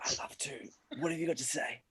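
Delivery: soft close whisper; whisper in left ear. Acted. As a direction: murmur right into his ear. Satan leans in close.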